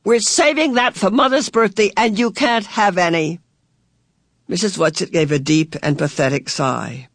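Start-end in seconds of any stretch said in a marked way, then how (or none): 0.0-3.4 higher-pitched, mild indignation; indignant. A narrator's reading. Charles guards Mother's birthday caviar, indignantly. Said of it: "Charles cried indignantly".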